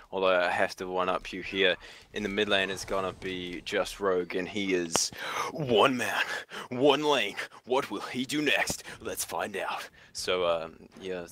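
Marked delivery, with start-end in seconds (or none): 2.1-9.9 lightly done dramatic trailer narrator; a hint of epic trailer announcer; movie trailer voice. One-upping his cohost, in a light movie trailer voice. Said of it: "that was my movie trailer voice".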